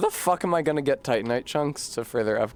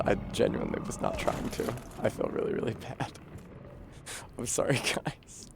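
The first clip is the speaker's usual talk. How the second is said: whispering; 2 semitones lower, 8 dB quieter than usual. Real, not acted. Guilty apology after killing an NPC.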